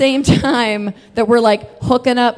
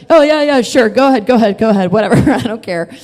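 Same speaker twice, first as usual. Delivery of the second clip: mock eager compliance; 4 dB louder, faster than usual. Student giving in to handcuffs, mock willing surrender. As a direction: give in breezily, as if retelling it.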